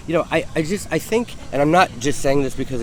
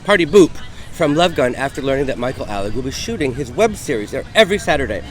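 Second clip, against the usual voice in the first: dramatic reading; 4 dB louder than usual. Acted. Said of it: "we're gonna do a dramatic reading of Mark Domu's screed".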